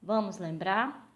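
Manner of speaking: ordinary talk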